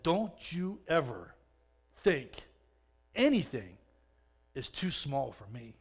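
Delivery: slow, solemn, quiet voice drawing out each word; voice of God. Retold or imitated. God answering the prisoner's prayer, slow and solemn. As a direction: speak with weighty, unhurried authority. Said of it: "It was not a gentle whisper".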